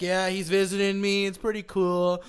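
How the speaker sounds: lightly mimicked buddy playing along; Nick Hayes impression. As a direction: imitate a friend casually backing up the story. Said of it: "that's a great Nick Hayes impression right there".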